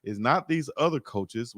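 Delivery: slow it down and state it calmly. Real, not acted. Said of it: "and very calmly I'll say".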